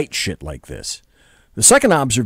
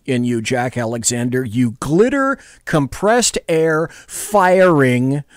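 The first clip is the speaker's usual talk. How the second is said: dressing down; 3 semitones higher than usual. Pretend. Mock scolding of Jack.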